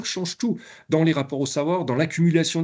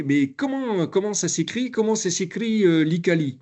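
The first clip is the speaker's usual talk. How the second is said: higher, a light North African lilt on the question; Algerian French accent; 6 semitones higher than usual. Retold or imitated. The trainer imitates the Algerian learner asking, in a light Algerian accent. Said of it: "je vous le fais avec l'accent".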